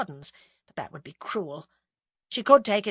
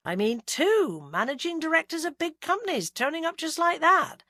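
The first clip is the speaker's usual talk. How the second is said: lightly voiced Gloucester policeman; a calm, sceptical young detective; Bill, detective; 9 semitones higher, 3 dB louder than usual. A narrator's reading. Bill questioning Agatha's plans, lightly voiced.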